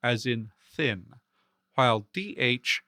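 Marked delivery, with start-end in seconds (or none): 0.7-1.1 "thin" with a clear voiceless English TH. Shown as a demonstration. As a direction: model the unvoiced th starting "thin". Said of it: "always the voiceless English T H".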